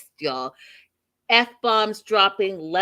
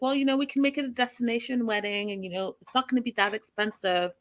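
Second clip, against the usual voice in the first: defensive; 4 semitones higher, faster than usual. Retold or imitated. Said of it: "starts to get a little defensive".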